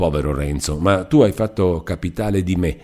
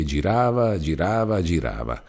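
fading repetition; 5 dB quieter than usual. Acted. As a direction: let the wheel fade out like a memory. Spinning wheel fading in memory.

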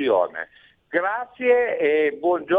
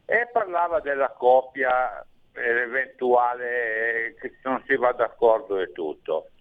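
radio show caller. Real, not acted. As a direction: voice over a phone line. Abbiamo un ascoltatore in linea. (ascoltatore al telefono)

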